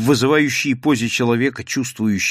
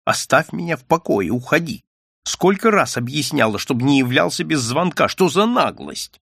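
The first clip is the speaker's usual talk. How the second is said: angry; 3 semitones higher than usual. Acted. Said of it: "а сейчас всё громче".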